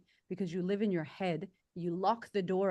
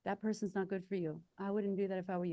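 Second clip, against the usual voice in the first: inner voice; 3 dB quieter than usual. Retold or imitated. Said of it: "That voice comes up to the surface".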